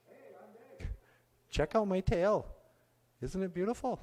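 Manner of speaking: high, showing off his tail; bragging to the crow; boastful beaver. Acted.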